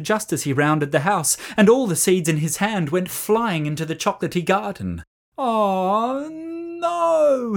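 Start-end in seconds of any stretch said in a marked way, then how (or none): 5.4-7.5 high, rising cry of dismay. A narrator's reading. Sam crying out as his seeds scatter, high. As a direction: wail as the seeds go flying. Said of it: "he cried".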